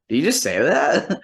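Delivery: retold shock, pitch jumping up. Musician to friend after being thrown out, shocked. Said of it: "I'm, like, shocked".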